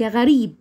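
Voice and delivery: "غريب" opening on the throaty Arabic ghain. Shown as a demonstration. Teacher shows gh as ghain, "غريب" stressed out loud. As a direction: model "غريب" with a ghain first sound. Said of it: "زي حرف الغين بالظبط".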